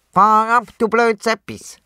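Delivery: furious cursing; scolding loudly. A narrator's reading. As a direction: tell the thing off. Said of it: "schimpft er laut".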